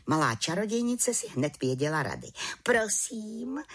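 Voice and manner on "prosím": calm whispered please. A narrator's reading. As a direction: say it calmly, barely voiced. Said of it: "řekla klidně". (klidně, skoro šeptem)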